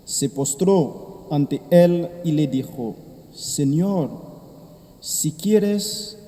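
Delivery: soft, measured liturgical reading; Gospel reading. Acted. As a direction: proclaim the Gospel gently at Mass. Priest proclaims the Gospel.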